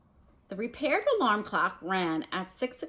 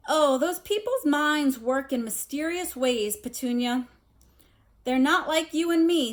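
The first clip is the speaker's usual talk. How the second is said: 1 pompous uncle; 5 semitones higher, 5 dB louder than usual. A narrator's reading. Vernon lectures Petunia.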